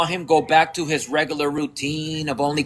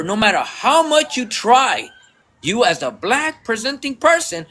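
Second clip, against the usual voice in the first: emphatic, insistent lecture, pitch climbing; going harder; 3 semitones higher than usual. Retold or imitated. Speaker schooling a gym acquaintance on belonging, emphatic. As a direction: drive each hard truth home. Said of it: "switched gears on them and went a little harder".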